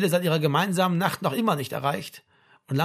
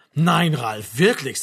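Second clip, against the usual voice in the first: mock astonishment; 6 dB louder, much slower than usual. The speaker mock-amazed at Ralf.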